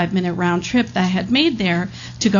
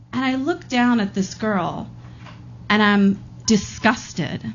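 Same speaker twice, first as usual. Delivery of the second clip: ordinary talk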